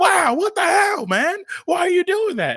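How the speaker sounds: mock irritated, angry outburst at very high pitch. Retelling how an actor reacted each time they yelled cut, retelling a pissed-off outburst. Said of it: "he'd get pissed off".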